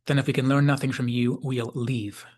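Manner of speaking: imitating an unmoved officer; understated, impassive ultimatum; impassive declaration. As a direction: state it without feeling. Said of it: "Riker declares impassively".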